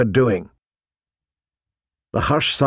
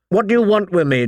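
higher-pitched challenge; demanding; 6 semitones higher, faster than usual. A narrator's reading. John surrounded by the boys, demanding. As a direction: demand an answer, pitch lifted. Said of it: "John demanded".

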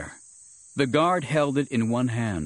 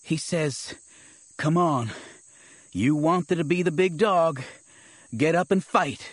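put-on higher-pitched, goading young sidekick; excitable Nick, urgent; 6 semitones higher than usual. Nick relays the growled challenge to a beaten Mace, urgent and high. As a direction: egg him on in a raised, higher voice.

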